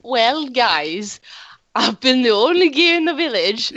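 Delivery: lightly put-on Welsh lilt; Welsh accent. Leading the podcast sign-off, light Welsh accent. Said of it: "started Welsh".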